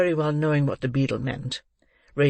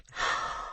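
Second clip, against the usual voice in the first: gasp; 8 dB quieter than usual. Acted. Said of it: "starting back".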